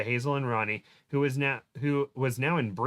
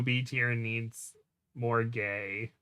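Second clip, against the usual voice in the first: reading a comment slowly; 4 dB quieter, much slower than usual. Retold or imitated. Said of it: "that's what the Derp Rec said".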